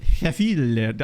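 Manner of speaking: "Sheffield" in a light mock Italian accent, dropping the first sound. Wondering how the Italian player says his name, mock Italian accent. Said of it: "say Sheffield in an Italian accent".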